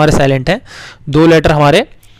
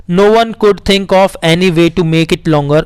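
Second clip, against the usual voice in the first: put-on slow story reading to children; much slower than usual. Teacher reading the Akbar story aloud to the class. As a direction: read it slowly and clearly.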